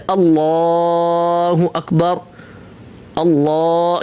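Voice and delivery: اللہ with the لام held long and slow; lengthened lam. Shown as a demonstration. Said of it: "اس کو اگر کھینچا جائے". (اللہ کے لام کو کھینچ کر)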